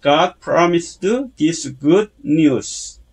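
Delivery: God promised this good news in slow, stressed chunks; accented key words. Shown as a demonstration. Teacher modelling for learners, slow accented phrase. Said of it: "액센트를 넣어서".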